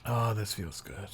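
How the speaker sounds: very slow, drawn-out whisper of comfort; blissful whisper. Acted. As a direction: let it melt out as a slow whisper. Settling into bed.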